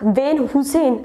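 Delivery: वैन हुसैन echoed as 'van hu-sen'; questioning the mispronunciation. Retold or imitated. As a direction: doubt it, saying हुसैन like Hussain. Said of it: "I don't think ऐसी company". (Van Heusenનો ખોટો ઉચ્ચાર 'વેન હુસેન', શંકાથી)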